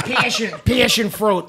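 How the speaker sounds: put-on slow, laughing Illinois-mom accent; mom's Illinois accent. Daughter mimicking mom at her house, Illinois accent. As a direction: draw out the Illinois vowels, amused. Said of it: "like, my mom".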